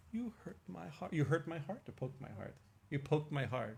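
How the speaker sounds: a hint of a wounded kid; little boy. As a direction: imitate a small child whimpering a complaint.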